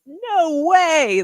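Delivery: high, loud, drawn-out disbelief; mock-outraged, stretched-out refusal; emphatic refusal. Acting out her reaction now.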